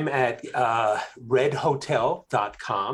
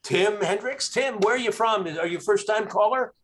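higher-pitched mock radio host; 9 semitones higher, 4 dB louder than usual. Radio host greets a winning first-time caller, in a put-on radio voice. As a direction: put on a radio call-in host's voice. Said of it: "your radio voice".

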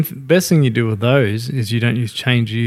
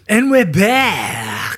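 show host comeback; 7 semitones higher, much slower than usual. Acted. Returning to the recording after pause.

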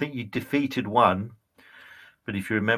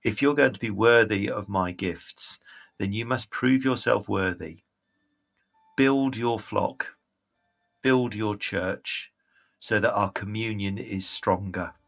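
slightly lowered, measured divine command; lightly voiced disappointed goddess; 3 semitones lower than usual. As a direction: instruct a lacking follower, unhurried and restrained.

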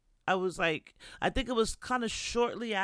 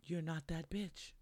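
shocked; 8 dB quieter than usual. Retold or imitated. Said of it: "they were shocked, like".

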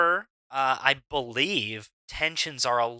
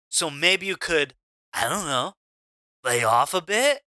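laid-back bro with halting, lilting phrases; wrong Dude Guy voice. Acted. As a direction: play a bro carefully asking a favor, pausing often. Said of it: "that's not the voice for Dude Guy".

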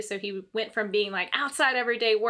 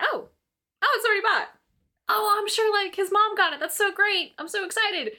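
high, bubbly excitement, retold; high-pitched giddy self-quote; excited; 10 semitones higher than usual. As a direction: gush about the gift as you imagine it.

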